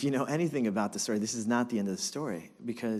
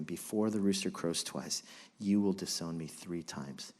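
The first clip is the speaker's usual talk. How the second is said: softer, lower haunted echo; quiet remembering; 6 semitones lower, 6 dB quieter than usual. Acted. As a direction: recall the words to yourself. Peter remembering the words quietly.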